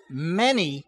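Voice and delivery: slow, deliberate reading in chunks; measured literal recitation, leaning on each phrase opening; word-for-word reading. Shown as a demonstration. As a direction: read it out slowly, pausing after the first word. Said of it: "reads like this".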